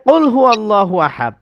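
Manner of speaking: recited verse; Quran recitation. Shown as a demonstration. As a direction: chant it like recitation. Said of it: "আল্লাহ বলতেছেন".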